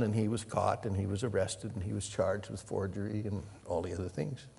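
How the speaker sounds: ordinary delivery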